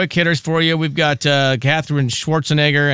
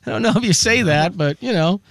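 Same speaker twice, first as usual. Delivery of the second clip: hesitant aside; 7 semitones higher than usual. Retold or imitated. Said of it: "I'm like".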